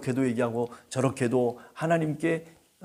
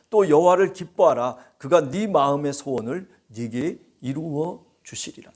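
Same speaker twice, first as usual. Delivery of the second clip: emphatic scripture reading; 5 dB louder than usual. Real, not acted. Reading scripture verse aloud.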